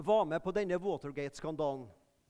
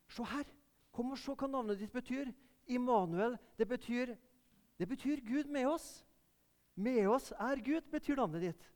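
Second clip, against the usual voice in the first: put-on softer, higher, kindly tone to a small boy; gentle to a child; 5 semitones higher, 3 dB quieter than usual. Man kneeling, telling a boy what his name means, tender. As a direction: kneel and tell him tenderly.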